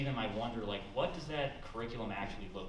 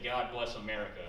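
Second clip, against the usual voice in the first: sarcastic. Retold or imitated. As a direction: say it with dry sarcasm. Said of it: "I very sarcastically said".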